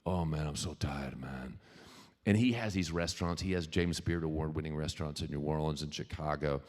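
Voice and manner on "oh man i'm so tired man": lightly imitating a Houma, Louisiana accent, a bit lower; a hint of a tired Louisiana friend; Louisiana drawl. Friend from Houma greeting Kevin in a mild Louisiana accent. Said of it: "He talked like this".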